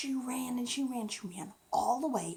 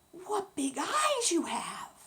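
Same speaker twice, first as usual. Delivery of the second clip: wondering; 6 semitones higher, 7 dB louder, slower than usual. Acted. Little Red to wolf in bed.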